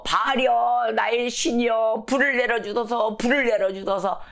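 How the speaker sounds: mock chanted plea to a god; crying out in prayer. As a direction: intone it like worshippers begging their god. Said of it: "막 부르짖습니다".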